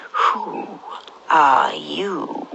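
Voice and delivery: drowsy, drawn-out caterpillar; sleepy caterpillar, slow and heavy. Acted. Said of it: "in a very sleepy voice".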